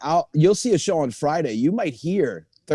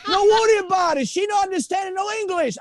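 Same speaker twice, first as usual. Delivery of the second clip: dad voice; 13 semitones higher than usual. Retold or imitated. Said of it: "He goes".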